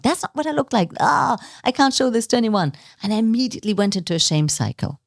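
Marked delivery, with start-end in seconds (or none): 0.0-2.7 mock dismay. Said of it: "I'm like".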